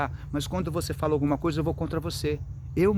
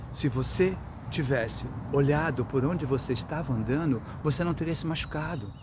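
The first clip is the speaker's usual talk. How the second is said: calm and tender. Shown as a demonstration. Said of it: "falar com calma, com carinho".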